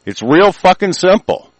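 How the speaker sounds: high, loud snapped retort; angry outburst. Real, not acted. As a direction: bark it out in anger. Ranting outburst.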